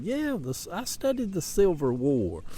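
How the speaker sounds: a hint of the Southern comic, starting high; imitated Southern comedian. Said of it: "He said".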